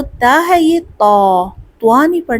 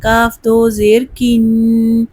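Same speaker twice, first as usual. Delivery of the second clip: slow, spelled-out drill for students to repeat; slow drill recitation; much slower than usual. Shown as a demonstration. Teacher leading a spelling drill, slow. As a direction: chant each syllable slowly.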